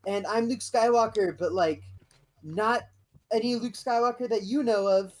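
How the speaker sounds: a hint of a grand Jedi offer; Luke Skywalker. Luke recruiting Wim, lightly voiced and high. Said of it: "they go".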